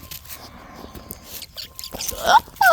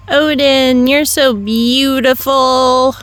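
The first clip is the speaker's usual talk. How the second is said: gushing at dog; 16 dB louder than usual. Real, not acted. Owner praises her dog loudly, excited gushing. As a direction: gush over him from a distance.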